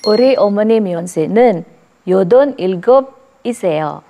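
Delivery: ordinary delivery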